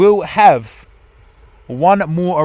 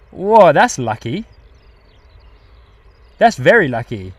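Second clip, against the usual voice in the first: amazed whoa; 2 semitones higher, 4 dB louder than usual. Real, not acted. Reacting to flyover.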